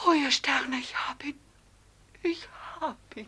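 breathless whispered joy; rapt whisper. Acted. Amalia holding Karl, whispering in rapture. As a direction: whisper it to the stars.

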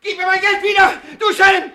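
very high, loud accusing yell; furious shout. Acted. Miser shouting at the thief he thinks he caught. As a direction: seize the thief in fury.

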